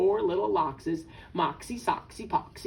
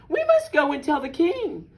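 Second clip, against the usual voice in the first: high, loud hen voice; insistent storybook hen; urgent cry; 5 semitones higher, 5 dB louder than usual. A narrator's reading. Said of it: "cried Henny Penny".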